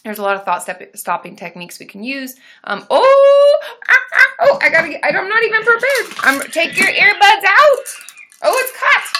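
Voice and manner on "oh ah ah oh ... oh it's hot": high, loud, flustered excitement; excited squeals. Real, not acted. Streamer flustered by a rush of donations, squealing excitedly. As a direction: squeal as gifts pour in.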